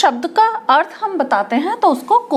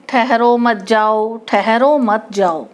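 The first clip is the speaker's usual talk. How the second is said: slow, lower, evenly chanted with no comma pause; run-together reading; 5 semitones lower, slower than usual. Shown as a demonstration. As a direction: read it out with "ठहरो मत जाओ" joined, ambiguous. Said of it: "अब इसमें मुझे फ़र्क बताओ".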